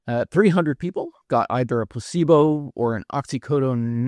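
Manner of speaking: talking around a mouth guard; mouth guard lisp. Real, not acted. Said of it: "with this, uh, mouth guard in my mouth".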